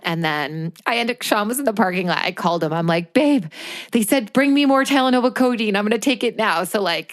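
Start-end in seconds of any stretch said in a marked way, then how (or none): 3.1-6.6 higher, pressing plea; urgent retold call. Patient calls partner for medicine from the doctor's office, urgent. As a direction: re-enact an urgent call for help.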